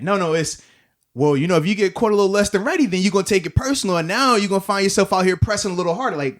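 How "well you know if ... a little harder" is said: lightly voiced coach, a bit fast and preachy; Coach T parable talk. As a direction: mimic a coach talking in riddles, only a hint. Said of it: "just talk regular, talk normal".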